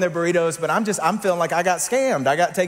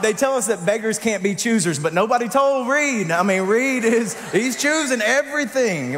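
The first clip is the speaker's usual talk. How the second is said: incredulous indignant rant; exasperated; 7 semitones higher, 3 dB louder than usual. Real, not acted. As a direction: let the outrage rise in pitch. Exasperated complaint.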